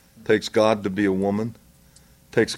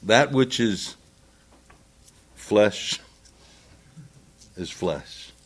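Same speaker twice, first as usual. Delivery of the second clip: scripture quote; 5 dB quieter, slower than usual. Shown as a demonstration. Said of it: "John three and verse six".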